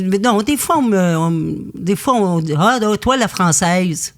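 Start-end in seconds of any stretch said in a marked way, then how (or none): 2.6-4.1 light mock Québécois accent, a touch raised at first. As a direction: tease her in a lightly put-on Québécois accent. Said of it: "Avec, évidemment, l'accent québécois".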